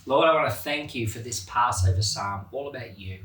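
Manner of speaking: prayer. Real, not acted. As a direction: pray to the Lord sincerely. Closing prayer.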